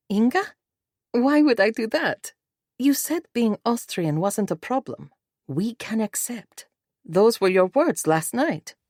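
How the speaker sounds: high-pitched, hurt protest; questioning bride. A narrator's reading. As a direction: challenge your husband in disbelief. Bride challenges her husband.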